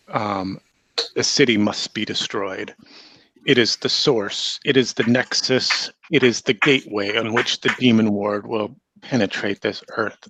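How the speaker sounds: a hint of a scheming witch preaching doom; hag villain voice.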